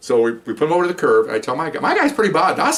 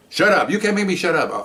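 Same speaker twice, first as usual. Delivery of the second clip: high, mock indignant woman's voice; imitating indignant woman; 8 semitones higher than usual. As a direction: pitch it up like her protest. Woman arguing back.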